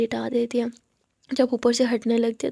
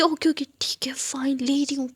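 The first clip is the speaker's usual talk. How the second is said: giving-in whisper. Acted. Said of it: "आद्या बोलती".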